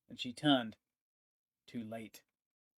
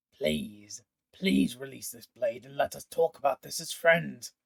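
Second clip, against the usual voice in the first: louder, urgent begging; desperate plea; 4 dB louder than usual. Acted. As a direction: beg through a strained throat. Pontifex begs for release.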